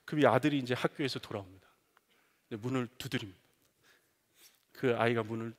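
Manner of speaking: ordinary talk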